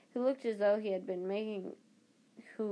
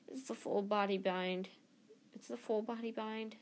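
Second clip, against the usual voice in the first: miserably; 4 dB quieter than usual. Acted. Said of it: "said Hermione miserably".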